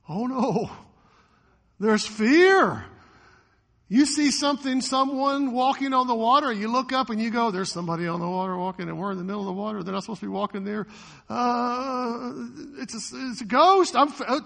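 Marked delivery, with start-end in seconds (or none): 0.1-2.9 hammed-up higher, louder cry; mock fear. Preacher voicing disciples crying out, hammed-up fear. 7.5-14.4 mock panic. Preacher acting panicked disciples, fast then loud mock fear.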